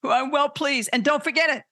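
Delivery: high, emphatic voice of a proud father; proud proclamation. Acted. Preacher voicing God affirming his son, proud high proclamation. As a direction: proclaim it from heaven, stretching "Son". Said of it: "but God was like".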